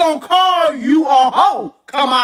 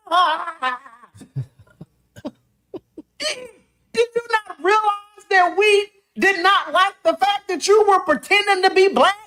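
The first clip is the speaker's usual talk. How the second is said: ordinary talk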